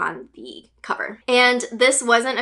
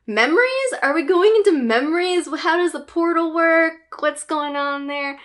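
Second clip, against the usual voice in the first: high-pitched, bewildered string of questions; playful confusion, pitched well up; puzzled disbelief; 7 semitones higher than usual. Acted. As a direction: question it with rising astonishment. Acts out her puzzlement at label.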